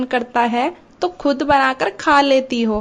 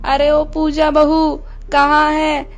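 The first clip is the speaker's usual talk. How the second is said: crying call; 3 semitones higher, slower than usual. Acted. Hurt mother-in-law calling her daughter-in-law, tearful cry. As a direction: call out for help, half crying. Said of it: "रोते हुए आती है".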